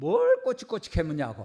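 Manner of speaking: loud, high, furious angry outburst. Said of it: "이분이 화를 확 내는 거예요".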